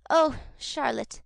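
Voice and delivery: gasping, breathless cry; breathless after a soaking; out of breath. Acted. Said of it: "through a deficiency of breath".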